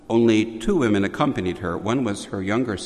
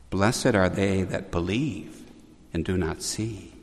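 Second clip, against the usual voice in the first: retold kindly tone; 2 semitones lower than usual. Our Lady turning to the two ladies, mildly acted kindliness. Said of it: "turned to them very kindly and said".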